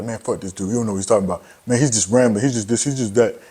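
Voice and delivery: lightly voiced dismissive hater; imitating a viewer who thinks he's rambling; mocking a hater. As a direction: brush him off like an annoyed viewer.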